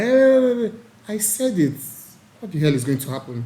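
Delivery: lightly mimicked defiant gossiper. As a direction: sass it out like a caught gossip.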